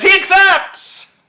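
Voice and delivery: drawn-out, very high shout; Eden. Retold or imitated. Eden answers for Cruz at the announcement, long high shout. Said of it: "Eden shouts".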